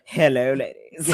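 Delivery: slow smooth ad pitchman; Old Spice guy. Retold or imitated. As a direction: purr it like a cologne ad. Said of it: "impression of the guy from the Old Spice commercials".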